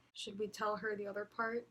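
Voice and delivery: hushed, soft voice; whispering. Retold or imitated. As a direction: say it under your breath. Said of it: "I heard them whisper something".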